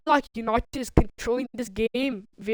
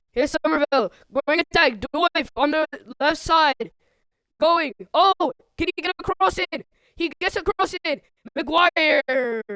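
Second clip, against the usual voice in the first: lively football commentary, rising with the attack; keen match commentator following the ball; play-by-play; 3 semitones higher, 4 dB louder than usual. Real, not acted. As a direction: call the attack as it builds.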